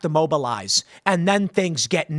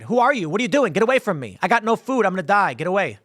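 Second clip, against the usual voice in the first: acted scared; 3 semitones higher than usual. Stranger with hand up to someone approaching, mock scared. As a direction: play a frightened stranger warning someone off. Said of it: "He's scared".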